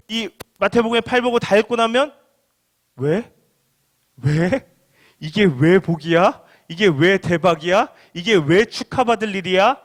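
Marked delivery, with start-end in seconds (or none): 3.0-9.8 slow, mildly incredulous questions; puzzled questioning. Acted. Reader questioning why this is a blessing, mildly incredulous. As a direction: draw out each question with a touch of disbelief. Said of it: "라는 생각이 든다는 것입니다".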